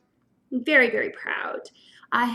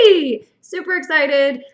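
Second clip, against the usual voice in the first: excited cheer; 5 dB louder than usual. Real, not acted. Cheering about vegan feast.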